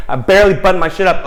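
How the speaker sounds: flustered rush. Retold or imitated. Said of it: "You're like".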